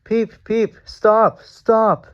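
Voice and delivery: frantic whistle. A narrator's reading. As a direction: shriek for him to stop. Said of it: "whistled Thomas".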